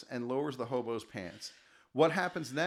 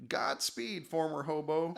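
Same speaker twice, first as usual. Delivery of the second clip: wistful; slower than usual. Acted. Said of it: "Fleshbot replies wistfully".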